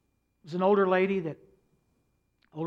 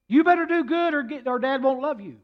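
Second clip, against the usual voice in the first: big brother's stern repeated warning; emphatic warning; 8 semitones higher, 8 dB louder than usual. Retold or imitated. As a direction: repeat the warning louder and higher. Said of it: "The one son said to the younger son".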